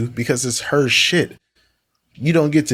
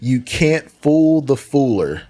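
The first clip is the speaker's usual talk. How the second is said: mocking repeat; 3 semitones higher, slower than usual. Mockingly repeats the other's comeback, laughing.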